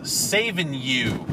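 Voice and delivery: slow, drawn-out mocking read. Real, not acted. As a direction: read it out with scorn. Reading license plate mockingly.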